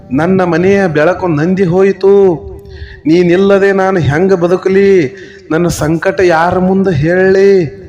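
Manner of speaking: slow, drawn-out wail, only lightly performed; mock wailing lament. Old man wailing over a dead frog to the crowd, a lightly acted lament. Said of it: "ಜೋರಾಗಿ ಚೀರ್ಲಕತ್ತ".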